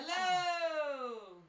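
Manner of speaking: high, loud shouted hello; loud call. Shown as a demonstration. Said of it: "That, that's my call".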